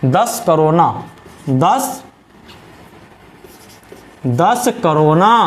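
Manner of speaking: "दस", long pause, then drawn-out "दस करोना"; slow dictation. Shown as a demonstration. Teacher dictating the memory word, "दस करोना" slow and drawn out. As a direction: stretch out "दस करोना" slowly for learners. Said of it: "इसको पढ़िए".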